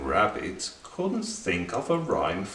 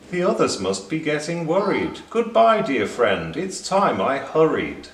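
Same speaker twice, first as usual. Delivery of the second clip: quick, higher and louder goodbye; hurried goodbye; 6 semitones higher, 4 dB louder than usual. A narrator's reading. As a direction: rush the farewell. Rabbit hurries to leave.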